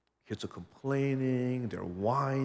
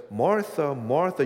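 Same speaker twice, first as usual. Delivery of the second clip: louder, pressing double call of the name; emphatic call; 3 semitones higher, 8 dB louder than usual. Acted. Jesus calling out to Martha, loud and intense. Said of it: "in this context, it's affection".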